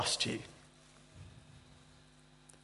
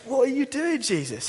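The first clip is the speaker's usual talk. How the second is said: exasperated call; 9 semitones higher than usual. Retold or imitated. Bystander calling after Jesus as he slips off, exasperated. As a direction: call after him, baffled.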